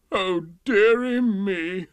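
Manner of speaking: slow, loud dismayed sigh. Acted. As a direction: draw it out in dismay. King dismayed.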